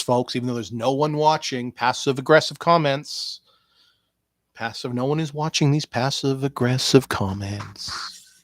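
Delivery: ordinary talk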